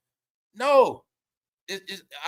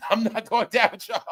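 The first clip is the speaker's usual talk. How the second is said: laughing. Shown as a demonstration.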